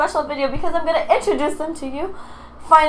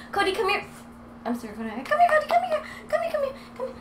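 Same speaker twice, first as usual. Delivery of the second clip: calling the dog; 4 dB quieter, much faster than usual. Real, not acted.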